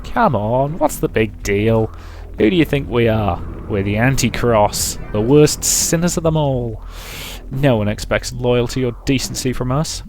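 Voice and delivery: slow, mocking clown voice; a lightly voiced sneering clown; creepy clown voice. Clown character scoffs.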